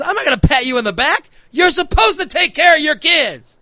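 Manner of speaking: lightly imitated indignant comedian; Chris Rock. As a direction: scold with rising, mildly mock indignation. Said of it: "And Chris Rock says".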